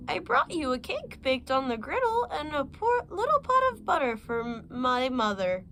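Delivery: put-on a big wolf squeaking to pass as a child; wolf faking a girl's voice. Wolf at the door fakes the granddaughter's voice, squeaky and high. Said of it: "disguising his voice".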